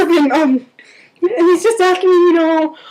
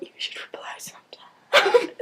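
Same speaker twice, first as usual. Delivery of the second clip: high, whispered aside; hushed, squeaky under-the-breath retort; unspoken thought; 7 semitones higher, 8 dB quieter than usual. Retold or imitated. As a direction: whisper it as a secret wish. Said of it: "I didn't say that, but I thought".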